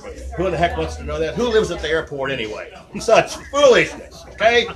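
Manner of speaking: put-on grumpy old comic. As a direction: complain like a tired Borscht-belt comic.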